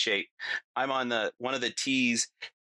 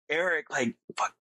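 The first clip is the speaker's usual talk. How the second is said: raised, urgent mock yell without full volume; retold scream, higher-pitched and drawn out on "run"; imitated scream; 4 semitones higher, slower than usual. Man mentally yelling at his friend to run, half-voiced mock scream.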